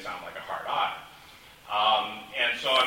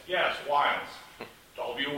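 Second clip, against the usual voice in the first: imitated Australian confirming "Wiles", A said as long I; Australian accent; 3 semitones higher, slower than usual. Australian friend confirming his name to a confused listener, imitated Australian accent. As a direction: answer firmly with an Australian "Wiles". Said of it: "the A sounds like an I".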